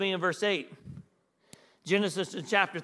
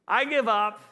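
mock baffled God; 3 dB louder than usual. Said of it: "He wasn't saying".

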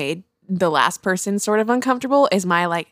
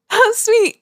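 high, squeaky, half-laughing "how sweet"; sarcastic high coo while laughing; mock sweet; 14 semitones higher, 3 dB louder than usual. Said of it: "I'm like".

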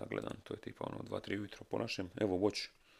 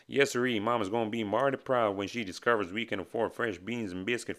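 grizzled prospector voice; 2 semitones higher, 5 dB louder, slower than usual. Retold or imitated. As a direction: ham up a crusty gold miner. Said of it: "Talk Like a Grizzled Prospector Day".

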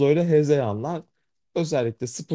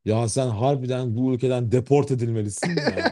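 after laughing hard. Real, not acted. Laughing while teasing friend.

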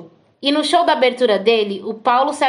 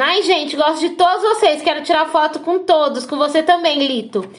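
retold excited shouting; 3 semitones higher than usual. Fan greeting the band backstage, mock shouting. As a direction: gush it in a raised pitch, as if calling out. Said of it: "Aí eu falei gritando".

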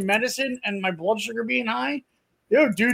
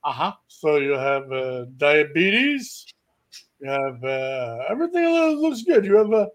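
doctor voice. Retold or imitated. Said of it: "he's like".

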